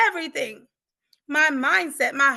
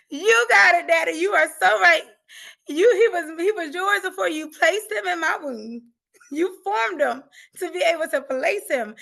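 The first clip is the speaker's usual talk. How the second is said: crying through it; 5 semitones higher, 6 dB louder than usual. Real, not acted. Tearful surrender to God.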